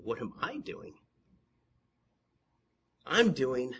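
soft, measured voice of God; God's patient answer. Acted. God reassures the one praying, patient soft answer. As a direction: answer quietly, with long pauses. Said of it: "you can hear the voice of God here saying".

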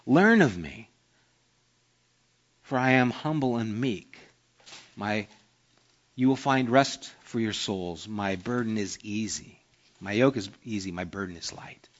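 gentle reading of Jesus' words; quoting Jesus gently. Retold or imitated. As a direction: offer rest softly, almost whispered at the end. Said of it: "Jesus said".

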